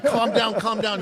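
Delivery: high, loud imitation of a sergeant; urgent calming order. Other sergeant cutting into the row, urgent retold order. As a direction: call it out over the commotion.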